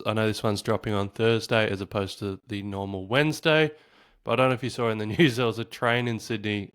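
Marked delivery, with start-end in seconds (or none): 4.6-6.7 light laugh breaking into the words. Real, not acted. Host telling viewers about the Sydney train trouble, laughing. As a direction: talk through a small chuckle. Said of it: "I don't know why I'm laughing".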